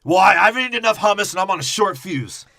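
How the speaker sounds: high, loud, fast hammed-up whine; mock whiny excuse. Podcast host voicing a movie character, high hammed-up whine. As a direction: blurt it out in a silly high voice.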